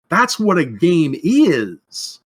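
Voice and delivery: slow whiny drawl. Pretend. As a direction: whine it out slowly. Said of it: "as I'm fond of saying in a whiny voice".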